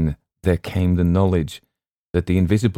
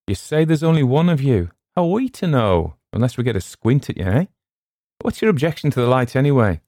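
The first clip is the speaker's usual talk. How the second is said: raised-pitch challenge across the water; higher, insistent calling voice; challenging sailor; 6 semitones higher than usual. A narrator's reading. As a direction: question the stranger suspiciously from the rail.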